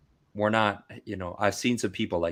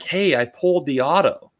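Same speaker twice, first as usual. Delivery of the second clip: higher and louder, eager and laughing; bubbly wife showing off her pull; wife excited; 5 semitones higher, 5 dB louder than usual. Retold or imitated. Imitating his wife showing him the card, in a higher, louder, excited voice. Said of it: "she's like".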